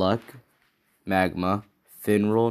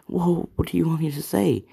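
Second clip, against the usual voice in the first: laughing it off; 10 semitones higher than usual. Acted. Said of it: "He's, like, laughing about it too".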